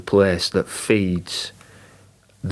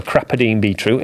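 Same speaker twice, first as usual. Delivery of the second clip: Yorkshire accent. Real, not acted. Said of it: "in my Yorkshire accent".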